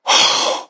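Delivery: sharp awestruck gasp; sudden voiceless intake; imitated gasp. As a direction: act out a breath caught in awe. Imitates being overcome.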